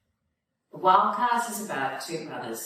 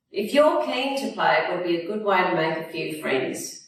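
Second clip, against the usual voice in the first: kindly grandfather; 3 semitones higher than usual. Acted. Grandfather speaks warmly.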